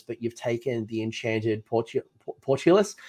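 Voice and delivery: tired, slightly slurred words; slurring. Real, not acted. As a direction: trip over the name, voice worn out. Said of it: "I'm losing my voice and I'm already slurring".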